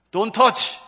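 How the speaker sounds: loud, high warning; command to Satan. Acted. God warning Satan away from his own, loud command. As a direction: order the enemy off, loudly. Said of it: "사탄에게 얘기하는 거예요".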